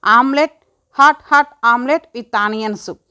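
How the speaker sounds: mother calling the dish out, very slowly stretched; అమ్మ లోపలి నుండి నెమ్మదిగా సాగదీసి పిలుస్తూ; drawn-out call. Acted. (అమ్మ వంటింట్లోంచి పిలుస్తూ, చాలా సాగదీసి)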